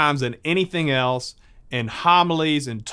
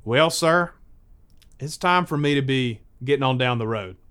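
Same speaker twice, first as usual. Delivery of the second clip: lightly hammed-up country accent. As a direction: lean into country folksiness. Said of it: "trying to sound as country as I can".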